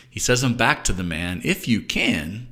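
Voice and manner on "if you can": gentle, slow echo; without anger or judgment. Acted. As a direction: hand the words back kindly, unhurried. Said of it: "I don't think it was with anger or judgment".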